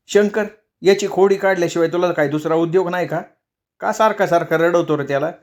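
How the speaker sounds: mother defending her crying son; scolding mother. Acted.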